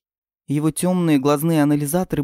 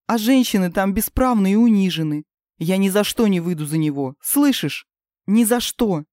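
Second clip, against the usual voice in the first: defiant; 3 semitones higher, 3 dB louder than usual. Acted. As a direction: fling the refusal back. Princess refuses marriage.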